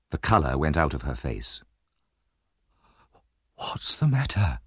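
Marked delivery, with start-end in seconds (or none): 3.6-4.6 alarmed. A narrator's reading. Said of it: "she said in alarm".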